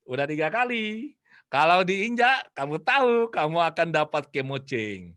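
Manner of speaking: slow, drawn-out retold threat; stern warning. Mother warns child before he steps, slow and stern. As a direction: stretch the warning out, rising mid-way.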